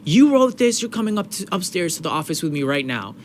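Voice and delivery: high, loud accusation easing toward the end; retold stern accusation, emphatic start; accusing principal. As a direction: imitate an authority pinning the blame. Acting the principal accusing him.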